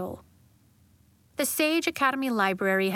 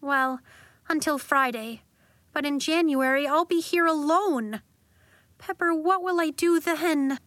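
tearful; 5 semitones higher than usual. Acted. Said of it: "Then her eyes filled with tears".

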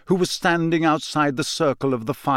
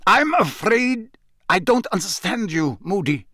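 disdainful; 7 semitones higher than usual. A narrator's reading. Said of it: "he was trying to sound disdainful".

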